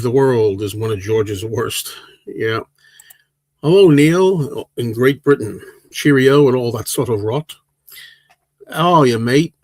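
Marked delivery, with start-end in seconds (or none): 3.6-9.5 hammed-up British accent with an Australian slip; mock British-Australian accent. Greeting a British viewer in chat, mock British accent. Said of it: "That sounds like an Australian accent I just did".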